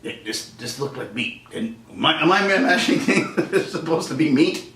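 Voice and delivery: lightly voiced puzzled lion; confused lion. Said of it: "They're just like".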